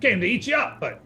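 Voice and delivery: lightly voiced chatty spider; a hint of a creature voice; spider character. Spider explains itself to the party, lightly voiced creature.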